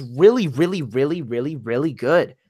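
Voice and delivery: bouncing singsong run of "really"; singsong like pop. Real, not acted. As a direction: repeat "really" in a lilting pop rhythm, each one rising and falling. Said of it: "You sounded like Carly Rae Jepsen just then".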